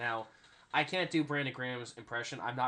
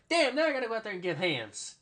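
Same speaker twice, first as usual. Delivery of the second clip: high, loud mock outburst; acted complaint; 9 semitones higher, 6 dB louder than usual. Player sent out for onside kicks, loud high mock complaint. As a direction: exclaim like a player sent back out.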